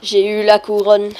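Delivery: a loud little victory call; loud announcement. Real, not acted. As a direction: announce it loudly to the viewers. Announces getting the crown.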